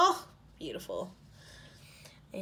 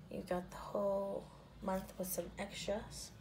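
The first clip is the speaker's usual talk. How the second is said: whisper; 7 dB quieter than usual. Real, not acted. Admiring day covers, hushed aside.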